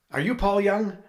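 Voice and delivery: astonished. Retold or imitated. Friend realizing who called.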